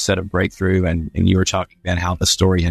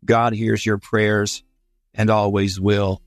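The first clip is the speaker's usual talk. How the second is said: read aloud; 3 semitones higher, slower than usual. Shown as a demonstration. Reading a bedtime book aloud.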